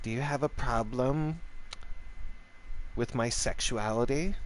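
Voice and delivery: lightly mimicked challenge, rising at the end; mock affronted man. Man challenging the drinker across the table, mock affronted question. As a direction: imitate him with a drawn-up questioning lilt. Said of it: "tilts his head and goes".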